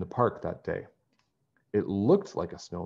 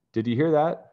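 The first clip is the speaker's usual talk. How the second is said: higher, louder delighted question; happy excitement; 8 semitones higher, 6 dB louder than usual. A narrator's reading. Bess celebrates with her friends outside the tent, happily. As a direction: blurt it out, thrilled at the news. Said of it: "Bess said happily".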